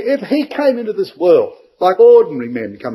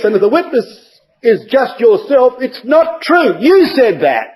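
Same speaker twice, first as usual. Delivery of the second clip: raised, pointed accusing voice; Pharisees challenging; 4 semitones higher than usual. Retold or imitated. Pharisees catching Jesus in his own words, pointed. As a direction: press him, catching him out. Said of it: "they said to him".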